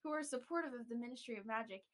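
a hint of a smug bully, laughing near the end; lightly voiced Draco. Podcaster reads Draco's points speech to listeners, lightly smug. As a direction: read the taunt with light mock smugness. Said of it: "I'm gonna read it for you guys".

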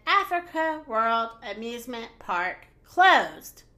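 lively storybook narration with light character voices; reading to children. A narrator's reading. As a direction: read it like a bedtime picture book for kids. Reading picture book aloud.

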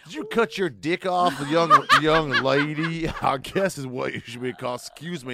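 loud, slow, hammed-up southern drawl; mock southern accent. Comic giving a crowd the worst thing, loud mock southern accent. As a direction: draw it out loudly in a rude southern voice. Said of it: "give them a southern accent".

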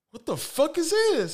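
wife burning from ghost pepper chips, shocked and half laughing; shocked outburst. Retold or imitated.

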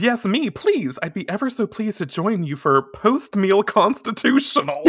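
high, affected posh speech; hammed-up genteel eagerness, close to laughing; poshed-up schoolgirl. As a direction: imitate someone overdoing refined manners. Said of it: "Poshing herself up".

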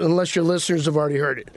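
talking through a burp; burping the words. Real, not acted. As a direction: let a burp break into the words. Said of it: "I'm gonna burp throughout this".

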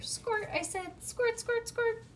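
high, silly squirt sounds; playful squirt noises. Acted. Girl pretending to squirt herself, high and silly. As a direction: play at squirting seltzer. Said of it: "pretended to squirt myself with seltzer".

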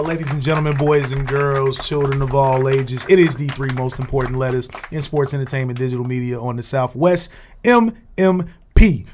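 booming showman intro, ladies and gentlemen; ringmaster. Pretend. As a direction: roll out the welcome like a circus ringmaster. Host introduces show like announcer.

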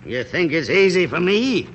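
anguished rebuke of a subordinate; angry outburst. Acted. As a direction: bite back at the officer, hurt and furious. Washington snaps at officer's remark.

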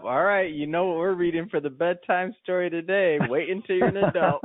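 playful parental warning at story time; mock parent announcement. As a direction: announce it like a fed-up parent, half laughing. Parent voiced reading bedtime story.

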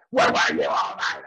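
low, slow mock-wife voice, deep and drawn out; suspicious wife. Wife grilling him after a night away, low and slow. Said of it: "Luna's like".

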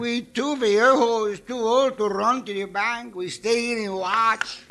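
put-on disguised old man. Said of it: "disguised as old men".

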